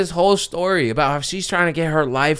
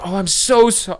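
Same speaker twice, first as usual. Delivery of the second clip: embarrassed woman; 6 semitones higher than usual. Retold or imitated. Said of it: "like, embarrassed".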